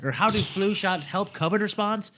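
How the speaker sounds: mock valley girl reading the tweet. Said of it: "I'll do it more Valley Girl".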